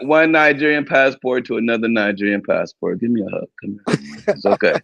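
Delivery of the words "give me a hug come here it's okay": softer, hushed fake soothing; mock comforting. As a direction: coo at him like a child needing a hug, teasing. Mock consoling the upset rival.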